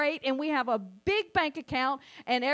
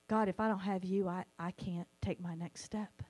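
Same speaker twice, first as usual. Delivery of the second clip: softer, humbled prayer voice; humble quiet plea; 6 semitones lower, 7 dB quieter than usual. Retold or imitated. Believer humbly admitting need to God, softly pleading. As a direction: let the words sink into a small plea. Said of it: "where we humble ourselves and go".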